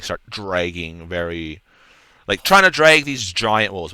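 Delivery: usual speaking voice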